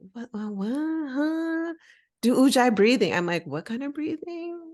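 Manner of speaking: high confused squeak at the teacher; mock bewildered, pitch jumping up; baffled. Newcomer baffled by yoga terms, high squeak.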